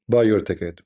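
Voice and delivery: sarcastic salesman voice, falling at the end; mock sales pitch. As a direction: sneer it like a cheap ad for the event. Mocking the memorial ticket sales.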